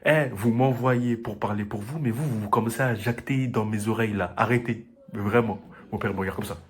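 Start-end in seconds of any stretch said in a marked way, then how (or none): 0.1-4.9 firm, a bit louder scolding; retold telling-off. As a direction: replay scolding the aunties. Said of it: "Je leur ai dit". (engueulade ferme rejouée)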